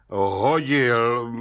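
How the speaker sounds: pigheaded one-word answer; stubborn mumble. A narrator's reading. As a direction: mutter it with mulish defiance. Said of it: "mumlal Václav Lisický s beraní tvrdohlavostí".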